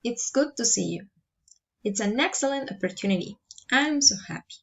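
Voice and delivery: "good", "excellent" and "so" up, then falling away; falling exclamations. Shown as a demonstration. Teacher models exclamatory sentences, falling intonation to the end of "happy". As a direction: let the tune drop by "you", "opportunity" and "happy". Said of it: "Following intonation".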